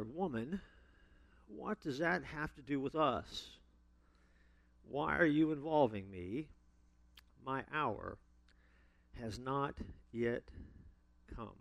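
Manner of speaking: slow, soft, measured reading with long pauses; scripture reading. A narrator's reading. Preacher reads Jesus' answer to the congregation, slow and measured. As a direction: read it out softly, pausing between phrases.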